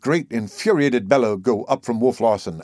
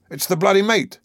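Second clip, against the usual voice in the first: crafty smothered answer; 9 semitones higher than usual. A narrator's reading. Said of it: "Leach's crafty answer, strained ... smothered".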